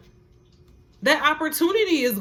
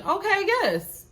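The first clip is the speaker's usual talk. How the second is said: emphatic; 10 semitones higher than usual. Real, not acted. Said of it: "acknowledge it".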